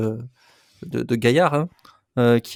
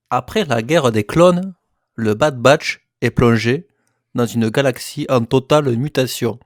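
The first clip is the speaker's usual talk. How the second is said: put-on léger accent du Sud de la France, débit posé; 4 dB louder than usual. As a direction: lire le résumé avec une pointe d'accent méridional. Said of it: "j'ai pris l'accent du Sud". (un soupçon d'accent du Midi)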